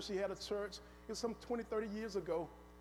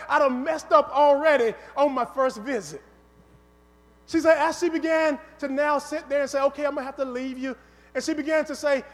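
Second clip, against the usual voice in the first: raised-voice sermon storytelling; louder, driving pulpit narration; preaching; 7 dB louder than usual. Real, not acted. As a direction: preach the story to a congregation with energy. Preaches the story with rising force.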